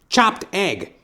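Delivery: high, loud barking order, hammed-up noir tough guy; tough detective. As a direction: bark the order like a pushy old movie detective. Detective hands over sandwich.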